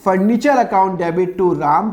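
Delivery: slow, each word spaced out; slow dictation. Shown as a demonstration. Teacher giving the furniture entry to students, slow dictation. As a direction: dictate the journal entry clearly. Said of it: "तो entry क्या होगी?".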